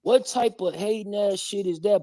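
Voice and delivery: high-pitched incredulous question. Real, not acted. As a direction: ask it high, in disbelief.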